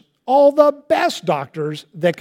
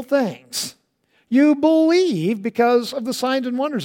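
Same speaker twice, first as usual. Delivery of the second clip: stern rebuke; 5 semitones higher than usual. Retold or imitated. Jesus rebuking the crowd.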